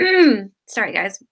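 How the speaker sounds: hoarse, rough morning voice; just woke up, voice still rough. Real, not acted. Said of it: "It's morning voice".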